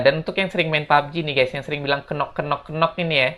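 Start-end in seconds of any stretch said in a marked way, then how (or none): 2.0-3.0 "kenok" with a sounded K and extra vowel; mock the gamer mispronunciation; wrong kenok. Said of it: "jangan bilang lagi kenok".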